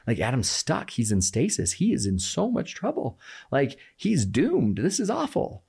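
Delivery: mock distress, building in pitch; imagined worried audience. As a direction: lightly act out a listener fretting over a cliffhanger. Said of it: "go home that whole week and be like".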